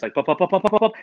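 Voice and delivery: heartbeat imitation. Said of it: "I'm having heart palpitations".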